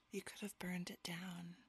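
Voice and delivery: sinister whisper. Pretend. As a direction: whisper like you're plotting arson. Joint sinister whispered plotting.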